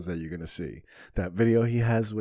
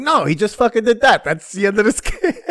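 much higher and louder, laughing through it; mock exasperated shout; 9 semitones higher, 8 dB louder than usual. Retelling how he argued with the comedian over a skit, loud and laughing. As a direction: blurt it out in disbelief. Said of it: "I'm like".

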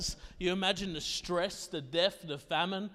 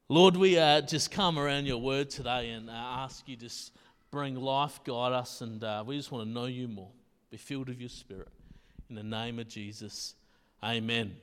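prayer; 9 semitones lower than usual. Acted. Closes with a short prayer.

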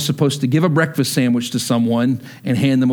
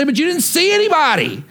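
voice of the Lord; 10 semitones higher than usual. Acted. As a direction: pronounce judgment on "anybody". The Lord answering the believer.

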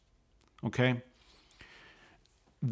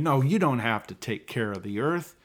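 Rick Allen; slower than usual. Retold or imitated. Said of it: "Congressman Rick Allen is saying".

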